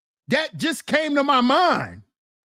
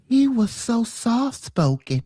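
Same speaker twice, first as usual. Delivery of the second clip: lightly imitating Michael; slower than usual. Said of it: "We all love Michael".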